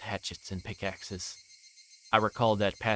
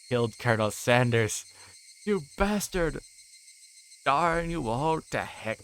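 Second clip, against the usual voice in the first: mock outrage; 4 semitones higher, 4 dB louder than usual. Mock outburst over broken statue.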